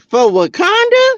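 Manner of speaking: high questioning "For Wakanda?"; lightly voiced movie heroine; mock heroine. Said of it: "she was like".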